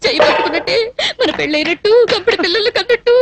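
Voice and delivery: mildly sobbing complaint; tearful lament. Acted. Jilted woman lamenting her marriage dream, tearful. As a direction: wail lightly through the broken words.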